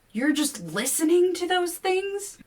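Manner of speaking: can't believe it; incredulous. A narrator's reading. Kevin to William, high slow disbelief.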